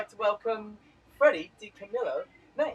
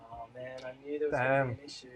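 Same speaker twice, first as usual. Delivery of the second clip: chipmunk-pitched broken audio; sped-up squeaky playback glitch; helium voice; 7 semitones lower, 3 dB quieter, much faster than usual. Real, not acted. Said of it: "You sound like you're on helium".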